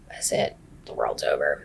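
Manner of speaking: very low, hushed whisper; whispered doom. Retold or imitated. Seeing her van already there, whispered doom. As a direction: whisper it to yourself, all hope gone.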